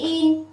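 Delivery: in said with a short clear i and a light n; teacher shows students that in is still read as in; model pronunciation. Shown as a demonstration. Giáo viên đọc mẫu in rõ ràng. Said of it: "vẫn đọc là in".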